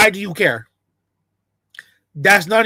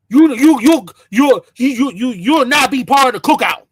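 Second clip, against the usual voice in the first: stuttering louder yell; mock shouted ban; 3 semitones higher, 3 dB louder than usual. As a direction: bar them from the cookout, loudly. Excluding someone from the cookout.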